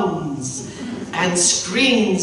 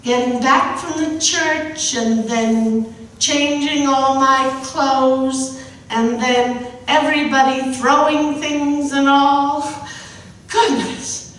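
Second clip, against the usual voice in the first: higher, fast nervous chatter; lightly voiced flustered bride; 4 semitones higher than usual. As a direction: babble on to fill the silence.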